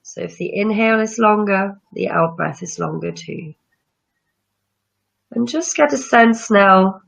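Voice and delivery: calm breathing-practice guide; guided meditation. Acted. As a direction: ease listeners into calm breathing.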